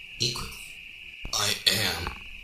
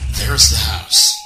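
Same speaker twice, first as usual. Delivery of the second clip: high, loud call out; excited shout; 4 dB louder, slower than usual. Acted. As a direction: shout it out on spotting the house. Robot spots the target house.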